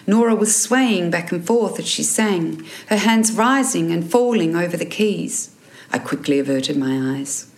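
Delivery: measured audiobook reading with lifted character lines; story narration. A narrator's reading. Author reading her novel to listeners, story narration. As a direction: read the excerpt as a storyteller.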